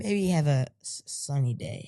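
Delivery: announcer-style slogan; catchphrase read. Shown as a demonstration. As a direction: say it like a tagline. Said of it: "let me try that".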